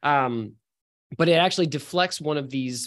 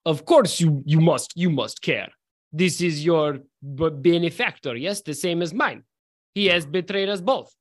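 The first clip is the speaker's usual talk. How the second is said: put-on Russian accent; 2 semitones higher than usual. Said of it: "in a very thick Russian accent".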